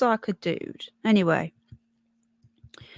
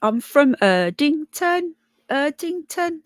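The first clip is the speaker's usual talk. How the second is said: raised-pitch Brummie, showing it off; Brummie accent; 5 semitones higher, slower than usual. Shown as a demonstration. Streamer proving to viewers her roots, Brummie accent. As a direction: lean into a Birmingham accent. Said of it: "See, I can still speak Brummie".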